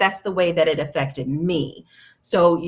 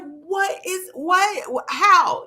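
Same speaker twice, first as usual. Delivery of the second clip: baffled; 13 semitones higher, 3 dB louder, much slower than usual. Retold or imitated. Stunned reaction to hot flash.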